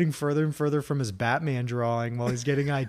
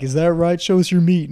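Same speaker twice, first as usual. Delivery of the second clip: loud, raised retelling of a demand; imitated demand; 5 semitones higher, 11 dB louder than usual. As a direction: call it out like a mocking superior. Quoting drill instructors in boot camp story.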